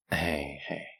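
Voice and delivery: calm someone who is upset; gently soothing. Acted. Villain soothes the upset prisoner.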